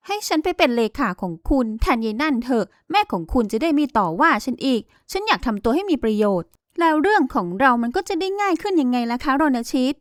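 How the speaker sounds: lightly voiced young woman, sweetly persuasive; coaxing heroine. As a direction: coax him gently, a touch brighter. Heroine coaxes her boss.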